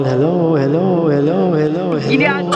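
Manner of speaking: repeated mic-check hellos with treble turned up; treble effect. Shown as a demonstration. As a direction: ring out the hellos through a treble setting. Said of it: "may treble din". (boses na may treble)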